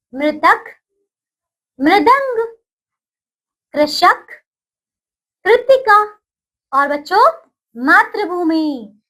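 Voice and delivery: words given clearly, मातृभूमि slow; recitation. Shown as a demonstration. Teacher leading children in pronunciation, clear and paced. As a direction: say each word for the class to echo. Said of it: "अब हम उच्चारण करते हैं".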